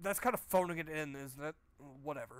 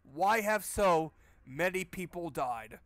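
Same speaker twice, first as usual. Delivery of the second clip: slow, louder disbelieving echo; incredulous repeat; 6 dB louder, slower than usual. Retold or imitated. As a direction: repeat the line, stunned at how dumb it is. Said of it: "He says, in a fucking graveyard".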